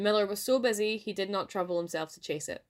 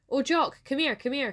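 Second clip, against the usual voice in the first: high, raised calling voice; urgent cry; 7 semitones higher, 4 dB louder than usual. A narrator's reading. Wife summoning her husband to see, urgent cry. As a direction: call your husband over urgently. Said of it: "cried the wife".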